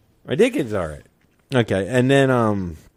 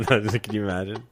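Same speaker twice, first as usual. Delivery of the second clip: ordinary talk, nothing marked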